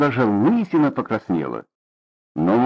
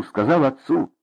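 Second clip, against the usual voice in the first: usual speaking voice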